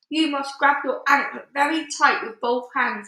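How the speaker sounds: a firm, loud command; ordered. A narrator's reading. BFG instructing the giant, firm command. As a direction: give the order with authority. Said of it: "he ordered".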